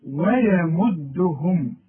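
ويمدهم slowly with thin waw and ya; thin letters. Shown as a demonstration. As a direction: draw out ويمدهم lightly. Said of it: "الدال طلعها مضمومة". (ويمدهم مرققة وببطء)

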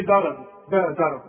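ضرب with a thick, loud ض; emphatic dad. Shown as a demonstration. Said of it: "تقول لي".

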